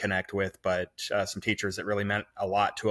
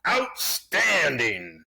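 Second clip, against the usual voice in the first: drawn-out, higher mock yell; Coach Cameron's catchphrase yell; 4 semitones higher, much slower than usual. Dad yelling out praise for his kids, drawn-out mock yell. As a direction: stretch it out slowly like a coach's holler. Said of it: "hear me yell out".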